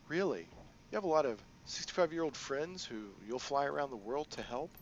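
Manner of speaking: a hint of a sly crime boss; lightly voiced, playful boss lady; Kindly Ching.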